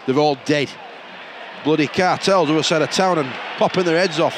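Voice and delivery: put-on Yorkshire gangster with a wandering accent; muddled Yorkshire accent. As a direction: play a mafia boss in shaky Yorkshire accent. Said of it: "What is that accent?".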